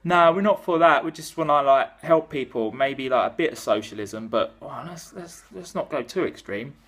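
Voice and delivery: nervous Labour. Retold or imitated. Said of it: "They were like".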